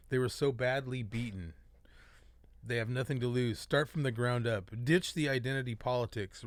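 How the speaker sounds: measured reading of a manifesto; letter read aloud. Acted. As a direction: read the open letter point by point.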